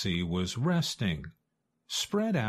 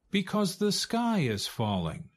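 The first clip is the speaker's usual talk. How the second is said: high, urgent goose voice; a frightened little bird warning, pitched high; goose's warning; 10 semitones higher than usual. A narrator's reading. Goose tells turkey the sky falls, high and urgent.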